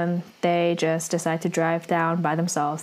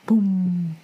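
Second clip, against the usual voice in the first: imitated drum boom. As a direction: punch out a bass drum drop. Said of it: "that bass drum drop".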